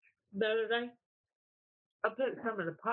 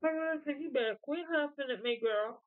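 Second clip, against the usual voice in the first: high, sassy mock warning; retold scolding; 5 semitones higher than usual. Owner warning her dog to quit huffing, mock scolding. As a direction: warn a huffy pet in mock outrage.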